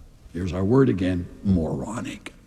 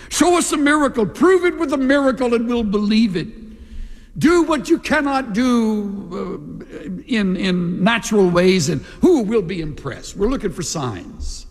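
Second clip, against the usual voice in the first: raised, insistent mock demand for a sign; mocking demanders; 5 semitones higher than usual. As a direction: play the skeptic demanding proof. Mock demand of Jews for miracles.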